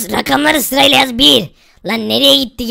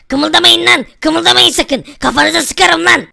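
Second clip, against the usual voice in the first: raised-pitch warning to freeze; mock police threat; 4 semitones higher than usual. Commissioner orders thieves not to move, play-acted threat. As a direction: threaten them in a higher, forceful voice.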